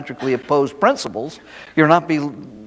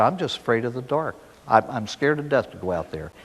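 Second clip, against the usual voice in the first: lower, subdued confession, no real sobs; retold sobbing child; 3 semitones lower, 6 dB quieter than usual. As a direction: admit the fear softly, understated. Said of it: "the kid was just sobbing by now".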